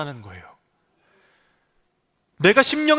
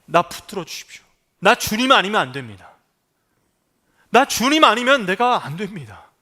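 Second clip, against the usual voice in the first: earnest plea; 4 dB louder than usual. Pretend. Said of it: "놓지 않았어요".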